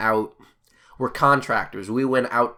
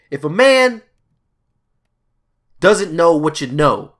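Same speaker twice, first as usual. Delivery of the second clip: solemn wise advice; 5 semitones higher, 8 dB louder than usual. Retold or imitated. Coworker giving his life advice in the van, hammed-up solemn. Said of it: "looked at me so sincerely, so wholeheartedly".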